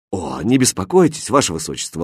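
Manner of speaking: calm her kindly; tender, low-key comfort; gentle reassurance. Acted. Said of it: "ласково ответил король".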